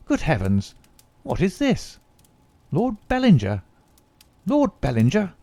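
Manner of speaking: put-on the young secretary, brisk then astonished; secretary Hope. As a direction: read out the papers, then gasp at the find. Secretary searches dispatch box.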